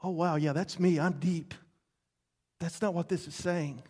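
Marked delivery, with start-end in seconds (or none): 0.0-1.5 lightly voiced self-satisfied listener; mock smug listener. Preacher mimicking a smug churchgoer, mild mock. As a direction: play a pleased, shallow hearer. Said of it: "That sounds kind of romantic".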